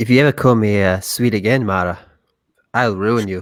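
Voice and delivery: put-on Irish-accented speech. Asked to hear that accent again, the speaker imitates Stig: Irish-sounding Stig impression. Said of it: "you made him sound Irish there".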